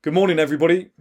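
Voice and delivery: loud, high, room-filling good morning; confident, projected hello; strong projected greeting. Shown as a demonstration. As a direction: greet the whole room at full volume. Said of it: "that sort of volume".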